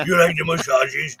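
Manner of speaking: lightly cooed talk to a dog, a little low; pet talk. Retold or imitated. Host replaying massaging his mutt, pet talk. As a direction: croon it to a dog being rubbed. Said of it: "And I'm like".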